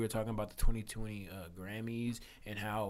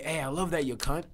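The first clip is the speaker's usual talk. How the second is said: loud, higher, friendly ribbing; Australian friend's casual talk; 5 semitones higher, 4 dB louder than usual. Retold or imitated. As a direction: toss it out like a buddy greeting. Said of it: "that's how they s-, talk".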